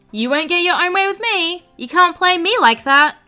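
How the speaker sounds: lightly imitated baby talk. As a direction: coo it like talking to an infant. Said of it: "in a baby voice".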